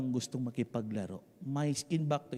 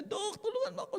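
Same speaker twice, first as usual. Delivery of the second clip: pagmamakaawa; 4 dB quieter than usual. Acted. Mother begging doctor for help.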